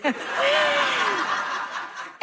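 a sudden high burst of laughter. Real, not acted. Comedian laughing high at her own uterus joke.

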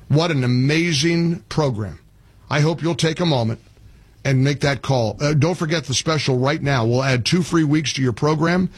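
steady upbeat host-read commercial; live ad read. Acted. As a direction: pitch the sponsor like a friend's tip. Host reads sponsor ad.

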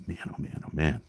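soft, breathy under-the-breath groan; drained, barely voiced lament; weary mutter. Real, not acted. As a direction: sigh the words out in disbelief. Exasperated sigh at the news.

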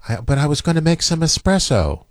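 a hint of the hermit's letdown; blind hermit. Quoting the blind hermit as the monster leaves, lightly voiced.

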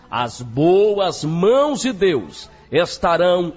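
emphatic preacher's campaign promo; radio church announcer. Acted. Announcer inviting listeners to Friday's campaign, emphatic radio preacher. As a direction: announce it with solemn, punchy emphasis.

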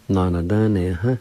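"No, no, dun, ne, huh" run together as one word; joined-up pronunciation demo. Shown as a demonstration. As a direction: blend "No, no, dun, ne, huh" smoothly, no breaks. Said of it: "is pronounced like this".

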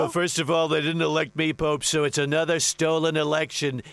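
lightly voiced blustering president; a hint of a boastful US president, rambling; boastful president riffing on beef; President impression. Same president voice.

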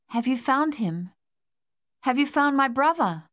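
rising, urgent plea; desperate plea. Acted. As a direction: beg for news of his brother. Desperate plea for lost brother.

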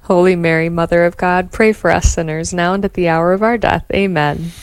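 steady devout rosary response; prayer recitation. Acted.

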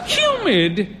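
high rising echo of the word; incredulous cry. Acted. Wife mocking her husband's phrase, incredulous. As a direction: pounce on the word in disbelief. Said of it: "she cried".

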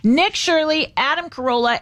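ordinary delivery

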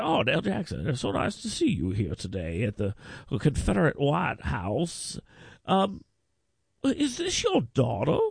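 mock old politician greeting the host; imitating Jim Ziegler. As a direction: drag it out like a male Kay Ivey. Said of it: "He's like a male Kay Ivey".

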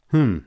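a scornful "hmm"; sneering hmm. A narrator's reading. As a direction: sneer it out through the nose. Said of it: "he sneered".

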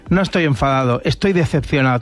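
low, restrained show of anger; mock stern disappointment. Someone wanting to seem extra angry at whoever failed them, mock disappointed. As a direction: act lightly wounded, voice dropped. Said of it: "quieres parecer que estás más enfadado".

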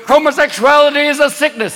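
a touch of pulpit condemnation; evangelical preacher. Acted. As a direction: declaim it like a televangelist. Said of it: "evangelicals going".

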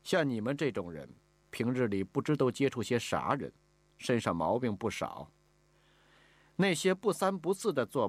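stern, measured lady of the house; brooking no argument. Acted. Mistress lectures the newcomer on house rules, brooking no argument. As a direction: lay down the house rules with authority. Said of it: "口气是不容置疑".

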